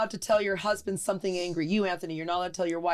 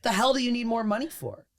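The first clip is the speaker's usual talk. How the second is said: amused pep talk. Pretend. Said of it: "wouldn't it be like".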